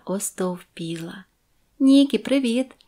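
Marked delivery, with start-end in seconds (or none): 1.8-2.8 high, loud happy greeting; calling out. A narrator's reading. Shop girl greeting Niki from the counter, calling out. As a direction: call out a bright hello. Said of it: "гукнула мені Кітті".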